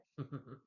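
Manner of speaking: soft, short mimicked chuckle; imitated character laugh. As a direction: act out his little laugh, quietly. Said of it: "He's like".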